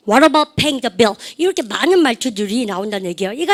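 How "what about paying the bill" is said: slow, every word spaced out; drawn out for students to echo; slow model phrase. Shown as a demonstration. Teacher modelling for class repetition, slow. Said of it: "시작".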